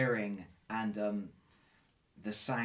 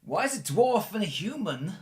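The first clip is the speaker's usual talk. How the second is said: higher-pitched, puzzled questioning; confused captive, pitched up, halting between phrases; bewildered rescued man; 8 semitones higher, 4 dB louder than usual. Acted. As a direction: draw out the first word, then ask in disbelief. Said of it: "He's go".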